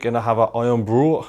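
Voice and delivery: a lightly put-on, bad Scottish accent; terrible Scottish accent. Vlogger at a Scottish hotel, bad Scottish accent. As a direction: try a Scottish accent and miss. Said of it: "That was a terrible Scottish accent".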